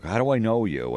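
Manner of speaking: high-pitched mock puzzlement; feigned non-recognition. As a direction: imitate someone pretending they can't place you. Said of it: "They'll pretend they don't know you".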